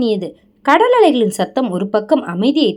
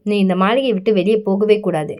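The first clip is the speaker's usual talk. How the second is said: lower, firm commanding voice; authoritative; 4 semitones lower than usual. Acted. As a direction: lay down the law, low and steady. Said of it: "என்றான் அவன் அதிகாரத்துடன்". (அதிகாரமான தாழ்ந்த குரல்)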